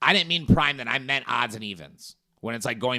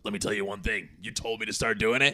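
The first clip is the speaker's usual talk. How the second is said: lightly voiced Bert; 3 semitones lower, 4 dB quieter, faster than usual. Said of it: "it's Bert like this".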